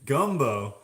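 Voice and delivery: loud mock Louisiana accent; hammed-up Louisiana shout. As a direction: belt it out in a put-on Louisiana twang. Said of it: "you guys do sound like that".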